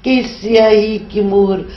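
measured, solemn Urdu recitation; poem recital. Acted. Poet reciting her nazm to the interviewer, solemn recital. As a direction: recite each line like a verse being read aloud.

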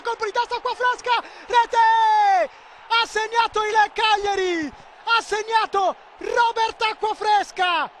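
high, slow triumphant goal shout; goal call. Real, not acted. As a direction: stretch out the scorer's name.

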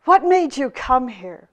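loud, slow, indignant tirade; the angry hermit scolding the visitor who disturbed his retreat; angry outburst. Acted. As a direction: rail at the intruder, still fuming. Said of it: "he exploded".

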